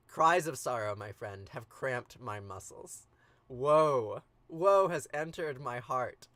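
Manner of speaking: slow, swelling mock woe; Enkidu's overblown cry of grief; hammed-up lament. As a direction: wail it like a tragic hero. Enkidu lamenting, reading dramatically.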